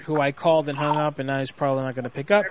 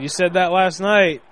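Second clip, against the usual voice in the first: louder, slow public taunt; retold loud teasing; 3 semitones higher, 6 dB louder than usual. Husband embarrassing his wife at the doctor's office, loud teasing. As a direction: announce it slowly so everyone hears. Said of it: "I said it real loud".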